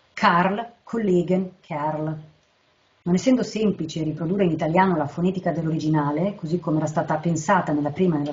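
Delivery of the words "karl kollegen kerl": "Karl, Kollegen, Kerl" word by word, each opening on a hard k; "Karl, Kollegen, Kerl" as a list of voiceless velar stops; sounding the k. Shown as a demonstration. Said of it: "la consonante occlusiva velare sorda".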